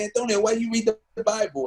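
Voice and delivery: put-on a high, teasing voice for the old mentor asking about the Bible; mentor's voice. Old mentor teasing his student about reading the Bible, voiced high. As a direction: lift the voice high to play Master Moody. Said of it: "He was like".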